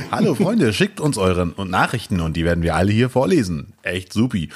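school radio host. Pretend. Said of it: "Schülerfunk".

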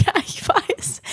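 breathy whisper, voice gone. Real, not acted. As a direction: whisper it under your breath. Whispered aside.

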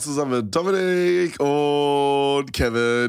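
stuffy blocked nose from a cold. Real, not acted. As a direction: talk through a stuffed-up nose. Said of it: "meine Nase ist zu".

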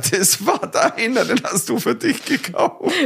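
high, slow mock-mother voice; quoted mother. Mother quoted in retold exchange.

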